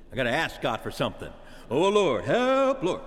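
mock petition. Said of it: "think of prayer in terms of petition".

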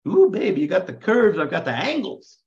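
high, loud hammed-up come-on; mock flirting. Guys long without women greet dolled-up Judith, mock flirting. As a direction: croon it up high like a playful pickup line.

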